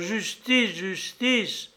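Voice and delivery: high-pitched plea, falling on each word; crying out. A narrator's reading. Wronged prince demanding justice from his father, high cry. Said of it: "s'écria ce pauvre prince".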